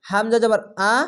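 আ said with a sharp glottal start, not a plain vowel; hard glottal আ; hamza with a glottal catch. Shown as a demonstration. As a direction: catch the throat on আ. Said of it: "এভাবে পড়তে হবে".

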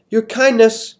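sneering, spitting out Kindness; mock the title with contempt; spat with disgust. King sneering at Missus Molasses with disgust. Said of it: "spat out the last word with a particular disgust".

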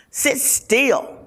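put-on a mother snapping at a squirming child; mother yelling. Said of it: "Mama yelled".

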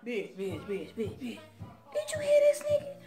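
high, laughing mock call to a friend; laughing inner voice. Her inner voice reacting to the insult, laughing. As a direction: sputter it out between laughs. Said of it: "this is what's going on in my head".

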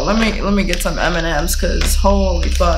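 talking while crunching candy; crunching chips. Real, not acted. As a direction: mouth full of M&Ms. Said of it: "Excuse my crunching".

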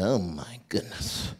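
low, slow oh my goodness; doctor voice. Retold or imitated. Doctor stepping out of the patient's room, stunned. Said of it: "the doctor came out".

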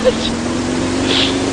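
short airy chuckle; quiet breathy laugh. Real, not acted. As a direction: laugh under your breath. After the hit. (숨죽인 웃음)

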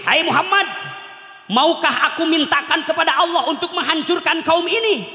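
lightly voiced angel asking permission to destroy the people; Jibril's voice.

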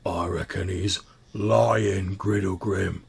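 dim, slow troll voice; slow, dull-witted brute voice; duller voice. Acted. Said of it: "a slightly duller sounding voice".

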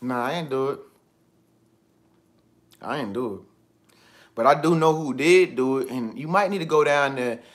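low, soft voice of someone lying; a liar denying in a low mumble; low-vibration liar. Acted. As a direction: drop it low and shifty like a liar. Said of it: "a very low vibration".

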